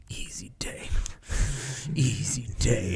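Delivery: muttered whisper under the breath; under his breath. Retold or imitated. Instructor warming up on box jumps, muttering under breath. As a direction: keep it to yourself, barely voiced. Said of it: "he's saying under his breath".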